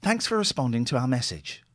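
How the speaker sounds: robotic call-centre recording; automated phone voice. Acted. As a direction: read it like a recorded bank message. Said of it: "this is an automated one".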